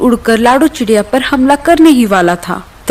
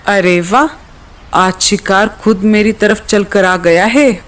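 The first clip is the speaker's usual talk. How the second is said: a lower, smug predator gloating over dinner; gloating hunter eagle; 3 semitones lower than usual. Acted. Eagle gloating at the little bird, low and smug. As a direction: savour the meal before it arrives.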